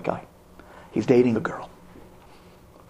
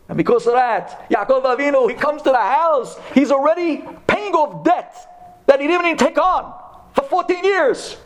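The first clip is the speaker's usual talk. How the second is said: higher and rising, pressing each phrase; fiery preaching; 11 semitones higher than usual. Acted. Rabbi telling the congregation, in fiery preaching. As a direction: preach it, building heat.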